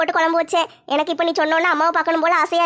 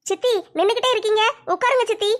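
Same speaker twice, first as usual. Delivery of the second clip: put-on higher, girlish daughter asking her mother; young daughter voice; 4 semitones higher than usual. Daughter asks mother about the sofa, girlish higher voice. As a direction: play the curious teenage girl, pitched up.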